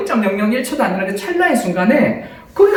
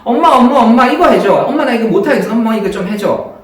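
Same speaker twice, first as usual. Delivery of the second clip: put-on loud, childish calling for mom; whiny child; 2 semitones higher, 4 dB louder than usual. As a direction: beg mom like a helpless kid. Child calling mother for help. (엄마 부르며 조르는 아이)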